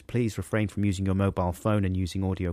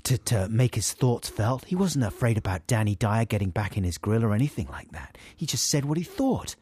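imagined admirers. Retold or imitated. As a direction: gush like a fan. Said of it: "hear their thoughts".

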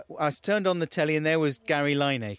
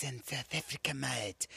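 put-on South African accent; 8 dB quieter than usual. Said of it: "talk like that, like a real South African".

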